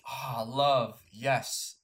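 lightly voiced French waiter, drawn-out last line; hint of a romantic French waiter. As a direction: imitate a waiter savoring his lines. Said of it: "He's the French waiter".

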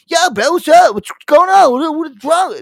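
high, loud frantic bro; worried friend voice. Retold or imitated. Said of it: "if Aaron called me every five minutes".

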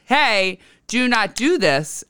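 mock scolding. Lifeguard checks a child, mild mock scolding. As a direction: warn like someone checking you. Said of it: "get yelled at in that sort of way".

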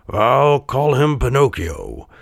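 lightly voiced Geppetto, musing as he works; drawn-out musing, not hushed; murmuring Geppetto. A narrator's reading. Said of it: "murmured Geppetto".

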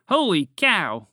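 Holy cow! shouted out slow and loud; a loud, slow cry of shock; startled shout. Acted. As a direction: blurt it in alarm at the dragon, drawn out. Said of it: "Wheezy shouted".

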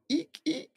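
a squeaky shoe's eek. Acted. Dad reading to a child, squeaky eek. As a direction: squeak it like a shoe. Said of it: "like a squeaky shoe".

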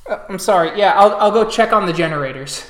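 hesitant, flustered father; nervous, stumbling apology; apologetic. Acted. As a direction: apologise and hurry to obey. Father apologises after scolding.

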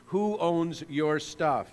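slow, weighty question; slow and deliberate. Shown as a demonstration. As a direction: say "Who owns your stuff?" slowly, stressing "who". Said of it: "the vital question that needs to be answered".

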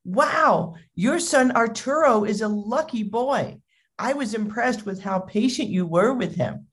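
lightly voiced admiring stranger; admiring shopper. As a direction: imitate a shopper complimenting a parent. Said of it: "a fellow shopper who had been in the queue with them said".

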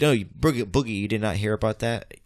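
slightly robotic, even-toned voice. Real, not acted. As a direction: talk like a robot without meaning to. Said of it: "Why am I sounding like a robot".

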